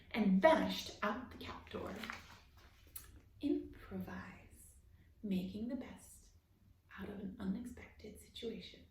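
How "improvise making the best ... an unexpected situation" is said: thinking aloud to yourself; musing softly. Real, not acted.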